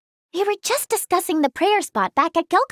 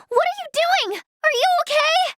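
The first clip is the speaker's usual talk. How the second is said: high-pitched, urgent cry of concern; alarmed; 11 semitones higher than usual. Acted. Checking if someone is okay, alarmed. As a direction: call out in sudden worry, pitch shooting up.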